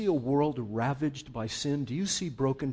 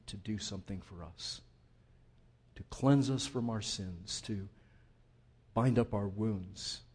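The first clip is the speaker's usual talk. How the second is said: prayer; 3 semitones lower than usual. Real, not acted. Closing prayer.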